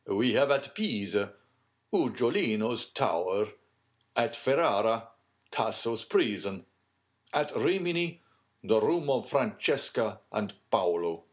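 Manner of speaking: lightly voiced gentleman, measured and loud; Italian gentleman's recital. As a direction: list the sights proudly, pausing after each. Plays Cavalcanti listing famous sights.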